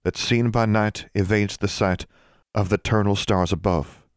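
formal chant to the stars, slowing at the end; solemn incantation. Acted. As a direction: recite it as a measured verse spell. Recites a rhymed incantation.

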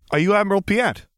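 put-on high, curious teen; a boy eagerly meeting a guest; teenage boy voice. Teenage boy greets the admiral.

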